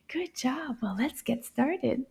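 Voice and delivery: gently pleased; soft praise. Acted. Teacher softly praising the kids before starting. Quiet praise after puppet.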